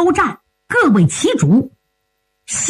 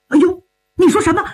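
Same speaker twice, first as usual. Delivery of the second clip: high, quick startled question; startled outcry; 5 semitones higher, much faster than usual. Acted. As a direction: blurt it out in surprise. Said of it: "别喊". (惊讶地高声追问)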